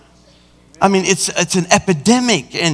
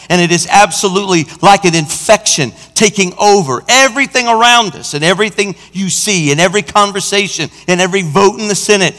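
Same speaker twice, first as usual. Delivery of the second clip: raised, driving sermon delivery; forceful preaching; 3 semitones higher than usual. Real, not acted. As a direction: preach it hard, hammering each phrase.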